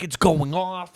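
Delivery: high, loud imitated alert; excited re-enacted announcement; alarmed girlfriend. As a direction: call out urgently, imitating a girlfriend. Voices girlfriend alerting about buzzer.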